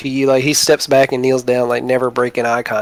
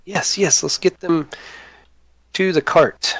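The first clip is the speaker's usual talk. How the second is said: higher eager goblin voice; 5 semitones higher than usual. Acted. Boblin hurries everyone to the cart, higher. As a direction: agree quickly, pitched up. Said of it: "He's like".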